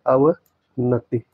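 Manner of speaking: अवनति stretched very slowly; slow spelled-out word. Shown as a demonstration. Teacher showing students the correct spelling, very slow and clear. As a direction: draw out अवनति syllable by syllable. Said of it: "अवनति होता है".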